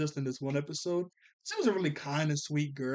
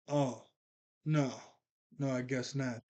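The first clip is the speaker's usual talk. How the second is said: understated sadness; 2 semitones lower, 4 dB quieter, slower than usual. Acted. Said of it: "it's kind of a sad scene".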